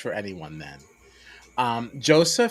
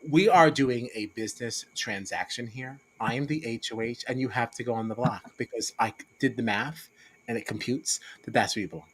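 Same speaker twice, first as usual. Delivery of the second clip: cold businesslike; 3 semitones lower, 6 dB quieter than usual. Retold or imitated. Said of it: "she is very, like".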